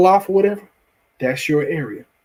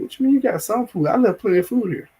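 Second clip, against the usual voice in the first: mock outrage; 6 semitones higher, faster than usual. Acted owner confronting squatters.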